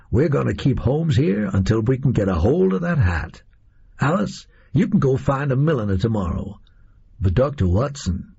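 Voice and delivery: a hint of a gang boss laying out the plan; lightly put-on voice, issuing orders; lightly voiced Oswald, giving orders. Oswald sending Alice off and turning to Watson, lightly voiced and commanding.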